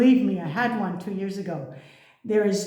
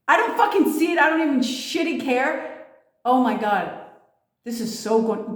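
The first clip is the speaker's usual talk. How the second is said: frustrated declaring; 3 semitones higher than usual. Retold or imitated. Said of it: "You need to declare".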